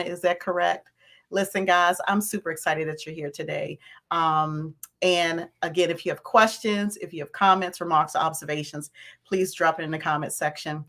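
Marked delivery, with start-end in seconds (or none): 2.1-10.8 hoarse, worn-out voice; raspy voice. Real, not acted. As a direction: speak through a raspy throat. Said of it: "please do excuse my raspy voice".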